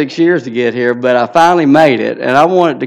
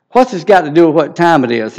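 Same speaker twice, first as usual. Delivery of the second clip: louder and higher, fed-up demand; impatient outburst; 5 semitones higher, 5 dB louder than usual. Retold or imitated. A fed-up salesman loses patience with the old farmer, raised voice. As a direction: snap the question out, out of patience.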